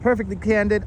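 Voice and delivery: a touch of forced excitement; trying to sound excited. Real, not acted. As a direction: pump up the name a little. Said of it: "I am trying to be exciting".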